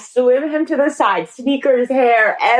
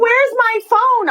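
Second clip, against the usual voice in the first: high, slow dithering; mock her panicked fumbling; flustered friend; 13 semitones higher, much slower than usual. Mocking friend's fumbling in emergency, high and slow. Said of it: "then you're like".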